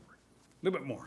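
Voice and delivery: softly spoken, slightly hushed nudge; quiet coaxing. Acted. Thunder moving turtle out of the way, softly. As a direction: coax him along in a soft voice.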